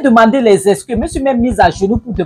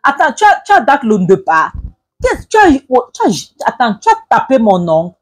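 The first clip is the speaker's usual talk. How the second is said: much higher, indignant squeal; shrill outrage; 5 semitones higher than usual. Acted. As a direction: shriek it out, outraged and stammering. Dispute, cri sur le mari. (indignation aiguë et bégayante)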